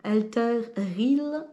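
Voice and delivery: slow exaggerated English pronunciation of "Alter Real"; mock English accent. Shown as a demonstration. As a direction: say "Alter Real" like an anglophone, drawn out. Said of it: "avec mon accent super génial".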